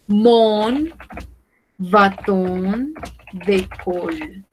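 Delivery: "mon", "bâton", "de colle" split by pauses; word by word. Shown as a demonstration. Teacher models French for learners, word by word. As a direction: slowly separate "mon bâton de colle" into chunks.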